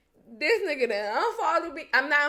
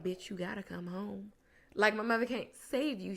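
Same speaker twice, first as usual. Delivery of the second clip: retold whisper; 3 semitones lower, 7 dB quieter than usual. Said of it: "I used to whisper to him".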